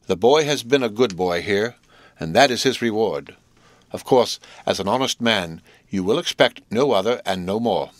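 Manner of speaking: put-on measured, emphatic "good boy"; distinct, emphatic. A narrator's reading. Miss Havisham addressing Joe, distinct and emphatic. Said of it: "in a distinct, emphatic voice".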